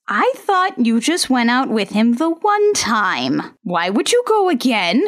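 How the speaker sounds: acted indignant questioning; mildly annoyed, lightly hammed-up reproach; mock angry. Reader voicing a girlfriend's jealousy, mock anger. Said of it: "asks Aja angrily".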